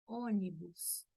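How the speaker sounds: "ônibus" slowly, with closed first o, "OH-nee-boos". Shown as a demonstration. Teacher models example word slowly, "ônibus" with closed O. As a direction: draw out "ônibus" with a rounded closed O. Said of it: "acento circunflexo".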